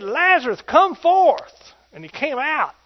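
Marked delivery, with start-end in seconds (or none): 0.0-1.7 high, loud call of command. Retold or imitated. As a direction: call him out of the tomb. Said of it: "And Jesus said".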